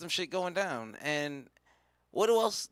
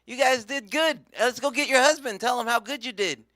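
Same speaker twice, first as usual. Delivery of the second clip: high, louder, congratulating; cheery false angel; 8 semitones higher, 6 dB louder than usual. Acted. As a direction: hail them with the good news. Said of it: "an angel came and was like".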